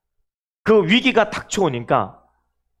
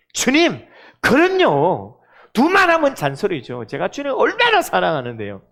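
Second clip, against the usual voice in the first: boastful Peter. Retold or imitated. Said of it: "큰 소리 빵빵 쳤는데".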